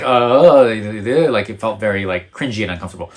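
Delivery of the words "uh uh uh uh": imitating worried stammer. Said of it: "super worried".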